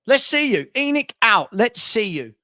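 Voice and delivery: mock chanting a rival fan's slogan; taunting. Real, not acted. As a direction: throw the chant back at him. Taunting a heckling fan.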